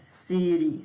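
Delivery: "city" said as "siri", the t a quick tap like Portuguese r; flapped t. Shown as a demonstration. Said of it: "Esse D pode ter a pronúncia de R".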